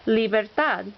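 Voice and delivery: Libertad with TAD stressed; stress on last syllable. Shown as a demonstration. Teacher showing examples of rule two, stress on last syllable. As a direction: land on the final syllable of Libertad. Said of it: "accent on the last syllable".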